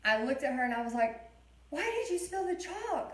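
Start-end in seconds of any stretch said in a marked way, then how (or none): 1.7-3.1 imitating her stressed self, pitched much higher; replaying a frazzled teacher's sharp question; stressed snap. Teacher retelling how she snapped at a five-year-old, mock stressed. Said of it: "I was just overwhelmed and I was stressed".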